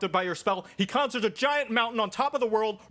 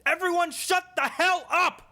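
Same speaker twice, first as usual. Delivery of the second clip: loud, higher furious yell; furious shout; 6 semitones higher, 5 dB louder, much slower than usual. Acted. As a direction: blow up at the whole table. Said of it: "Poor D M".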